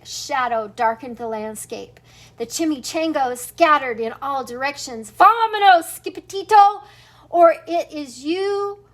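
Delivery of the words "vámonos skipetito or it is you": louder urgent warning to run; frightened crying out. Acted. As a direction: urge him to flee, calling out. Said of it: "they cried".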